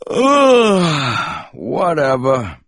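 dismissive yawning ugh; bored clerk yawning at the mouse. Acted. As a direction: yawn through the words. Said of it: "he said with a yawn".

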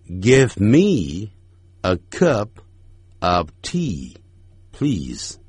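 each word of Give me a cup of tea please spaced out; slowly. Shown as a demonstration. Teacher reading the sentence slowly for practice. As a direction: read it word by word, unhurried. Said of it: "所以我们慢慢念".

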